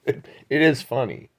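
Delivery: chuckling it is funny; laughing agreement. Real, not acted. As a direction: laugh through it. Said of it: "But it's still funny".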